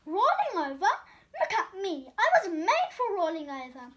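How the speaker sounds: loud, laughing delight. Acted. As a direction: laugh through it loudly.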